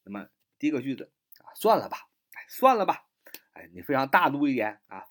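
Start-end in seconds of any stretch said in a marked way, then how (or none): 1.6-3.1 high, airy let-it-go; mock forgiving sigh. Shown as a demonstration. Teacher acting out letting it go. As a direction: breathe it out like waving off a grudge.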